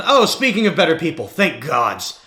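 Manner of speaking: acted loud, relieved greeting; loud relief. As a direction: call out in relief, starting high. Shouting overseer spots the party arriving.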